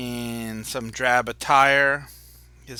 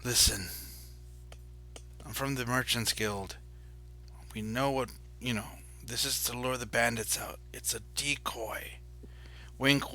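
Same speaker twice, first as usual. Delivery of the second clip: softer, hushed insider tone; confidential merchant voice; 5 dB quieter than usual. Acted. Merchants Guild man confiding the decoy plan to the adventurers, hushed. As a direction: drop into a conspiratorial aside. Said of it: "his voice changes a little bit".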